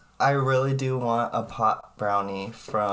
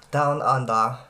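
mock Aussie accent. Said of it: "How is my accent, Oliver".

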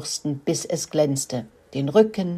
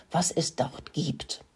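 unvoiced, slow sneaky whisper; 8 dB quieter than usual. Mouse whispering to her brother while sneaking onto the yard. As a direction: breathe it out so nobody on the yard hears.

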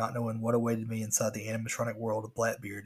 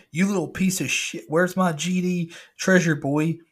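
higher, louder, slow raging pirate; screaming angry pirate; 6 semitones higher, 7 dB louder than usual. Retold or imitated. Pirate animatronic screaming at the boy. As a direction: rage at the boy like a monster.

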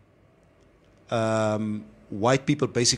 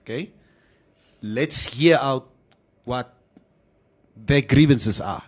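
emphatic retelling; 3 semitones higher than usual. Retold or imitated. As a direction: lay down the point firmly. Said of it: "and I said".

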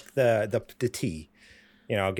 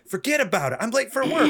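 dismissive biker; 11 semitones higher, 5 dB louder than usual. Retold or imitated. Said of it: "He's like".

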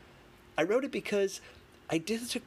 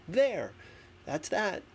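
mock dismissive; 6 semitones higher than usual. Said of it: "and saying".

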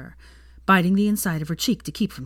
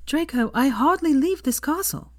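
pointedly; 10 semitones higher than usual. Acted. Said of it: "said Hermione pointedly".

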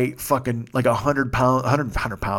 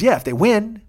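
high, louder mock friend; imitating friend; 8 semitones higher, 4 dB louder than usual. Friend Mex arguing about the Super Bowl, lightly mocked. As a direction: toss it back like a know-it-all friend. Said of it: "He goes".

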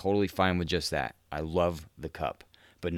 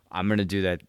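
laughing; 4 dB louder, faster than usual. Real, not acted. Laughing while announcing plan.

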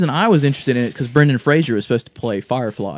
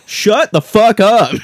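slow, higher, louder mock snap; angry snap; 9 semitones higher, 9 dB louder, much slower than usual. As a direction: bark it at the talker. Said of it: "I'm like".

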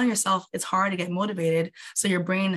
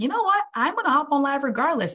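determined pep talk; 7 semitones higher than usual. Retold or imitated. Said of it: "And I was like".

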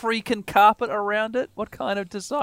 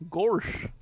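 goofy gorsh voice; 6 dB quieter than usual. Acted. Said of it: "That's what I'm going for".

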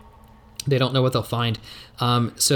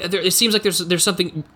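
high, urgent discovery; excited character; 6 semitones higher than usual. Acted. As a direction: blurt it out, high and eager. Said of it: "they're like".

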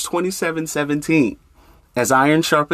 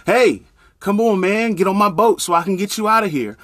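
raised, higher call across the water; 5 semitones higher than usual. Acted. Neighbor in a canoe calling to the man on the roof, raised call.

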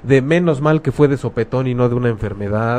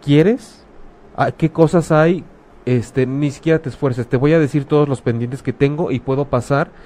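caring friend offering. Shown as a demonstration. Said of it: "de pronto".

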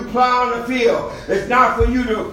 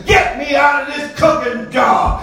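preaching at full force; 3 semitones higher than usual. Real, not acted. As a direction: drive the sermon home to the congregation. Preaching testimony.

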